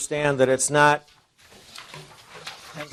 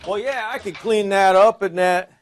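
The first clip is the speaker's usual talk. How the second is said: put-on Southern accent, slightly raised voice; 6 semitones higher, 3 dB louder than usual. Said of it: "I always go to a southern accent".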